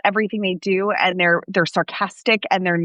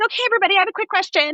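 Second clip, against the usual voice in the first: high, bright call to the class for attention; teacher addressing class; 11 semitones higher, much faster than usual. Retold or imitated. A teacher raising her voice to get the whole class listening. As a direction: call the room to order like a cheerful teacher.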